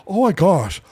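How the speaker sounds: a hint of a hyped fan; imitating an excited fan. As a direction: gasp it out like a thrilled superfan. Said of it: "wait, I gotta talk like him".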